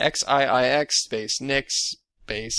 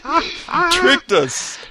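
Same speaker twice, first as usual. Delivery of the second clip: mock accusing; 3 dB louder, much slower than usual. Mock accusation, slow high.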